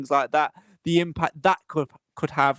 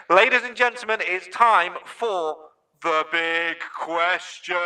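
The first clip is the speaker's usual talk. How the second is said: announcer through a megaphone; megaphone effect; 2 semitones higher than usual. Pretend. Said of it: "the megaphone effect every week".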